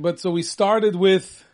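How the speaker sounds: drawn out "started with"; slow, deliberate setup for the list; slow recap. Acted.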